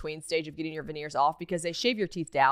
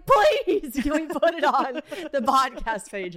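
pleading; 7 semitones higher, 4 dB louder, slower than usual. Retold or imitated. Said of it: "she was like".

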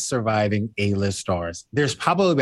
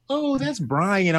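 high, slow drawl; 8 semitones higher, much slower than usual. Retold or imitated. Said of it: "I was like".

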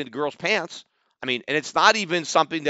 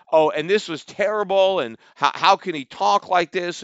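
higher, sarcastic scandalised whine; imitating the tweeter's put-on dismay; mock outrage; 4 semitones higher, 4 dB louder than usual. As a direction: mimic fake indignation, hammed-up. Mocking the outraged reaction.

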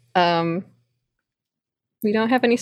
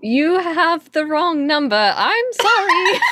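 laughing; 3 semitones higher, slower than usual. Acted. Caught hacker fakes wrong number.

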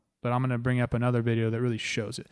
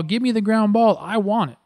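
higher and louder, pumped up; hungry for the ball; 8 semitones higher, 5 dB louder than usual. Retold or imitated. Third baseman wanting the ground ball, pumped and higher. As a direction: call for the ball like you can't wait.

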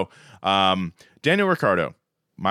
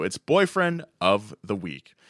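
segment announcement; slower than usual. Acted. Announcing favorite show segment.

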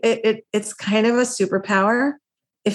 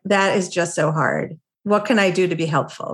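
lightly voiced sympathetic friend, a little lower; compassionate; 3 semitones lower than usual. A friend getting together to listen, compassionate. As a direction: offer gentle, understated sympathy. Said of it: "compassionate person who says to you".

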